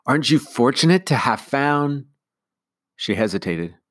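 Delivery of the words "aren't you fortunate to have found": put-on high, sweet voice for a baby; sweet high-pitched. Nanny cooing to baby Ruth, sweet and high. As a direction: coo at the baby. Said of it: "in a sweet, high-pitched voice".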